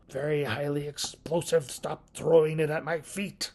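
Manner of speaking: a rough, lightly voiced Fourth Doctor impression. The Doctor telling Sarah Jane off, a rough Doctor impression. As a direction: try for the Doctor's dry scolding, half-hearted. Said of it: "That's the worst Fourth Doctor impersonation ever".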